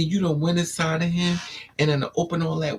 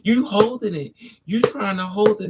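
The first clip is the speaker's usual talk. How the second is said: ordinary talk, nothing marked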